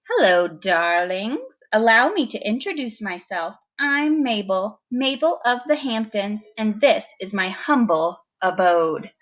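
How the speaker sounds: campy pampered lady dog; campy drag queen. Acted. Teacher voices Mabel the dog.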